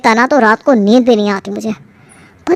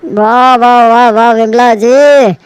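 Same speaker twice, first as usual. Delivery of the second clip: delighted; 3 dB louder, slower than usual. Acted. Praising the halwa.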